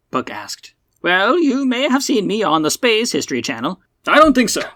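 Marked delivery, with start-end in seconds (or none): 1.0-3.8 put-on high-pitched elderly broadcaster; self-promote like an old twenties radio host; old-man radio personality. Old man introduces himself to Buck, high old-man radio voice. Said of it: "nineteen twenties radio personality with the old man accent". 4.1-4.6 rapid, loud, high-pitched denial; very quick reply. Acted. Buck cuts down the old man's claim, very quickly. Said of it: "Buck said very quickly".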